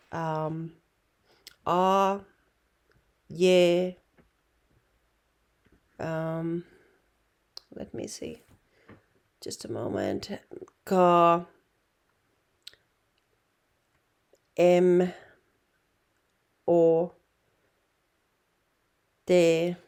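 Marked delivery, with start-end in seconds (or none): 1.7-4.0 each letter sounded out clearly, a bit louder; letter names demo. Shown as a demonstration. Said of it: "the letters". 10.9-19.8 Ka, M, O, T each sounded out alone, louder; letter sounds demo. Shown as a demonstration. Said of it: "So that was the A M keto letters".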